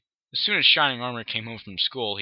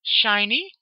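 worried; 11 semitones higher, 5 dB louder than usual. Acted. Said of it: "Twilight asked worriedly".

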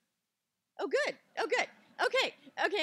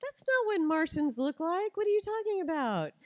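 put-on loud, much higher, exasperated twelve-year-old; indignant daughter; 8 semitones higher, 7 dB louder than usual. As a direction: argue back hard, sure she is right. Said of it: "And Lucy goes".

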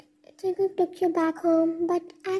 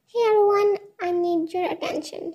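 raised voice grabbing the room; shouted. Acted. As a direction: call out over the party crowd. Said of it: "she shouted".

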